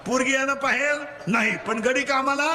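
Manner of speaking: call-and-response preaching. Real, not acted. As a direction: leave the end rising for them to finish. Call and response story with children. (पोरांकडून वदवून घेणारा चढा सूर)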